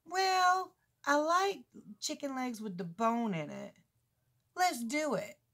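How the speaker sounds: high, drawn-out imitation of a boy; son's eager reply. Son accepting chicken from grandma, playfully eager. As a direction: start high and loud, stretch it out. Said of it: "Just the way he did it".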